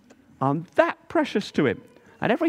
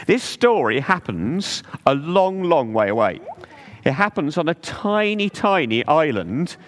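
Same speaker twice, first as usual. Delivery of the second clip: story narration. Acted. Telling children about the pearl diver, storybook narration. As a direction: read it like a bedtime tale for little ones.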